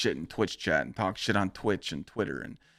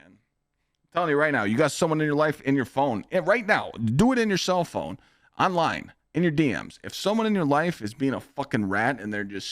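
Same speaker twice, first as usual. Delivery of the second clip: higher and louder, pushing the viewers hard; fired-up urging; 5 semitones higher, 4 dB louder than usual. Real, not acted. Streamer firing up his viewers, excited and loud. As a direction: hype them up to cut the rats loose.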